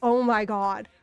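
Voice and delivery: laughing out oh my god; real laughing disbelief. Real, not acted.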